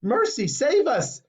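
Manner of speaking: high, slow cry for help; horrified yell. A narrator's reading. Mother crying out as her girl turns blue. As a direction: cry out for mercy. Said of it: "yelled Missus Beauregard".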